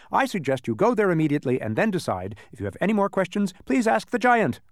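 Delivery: lightly voiced, emphatic character lecture; muddled advice-giver. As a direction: reason it out, building to a dismissal. Man delivers muddled advice.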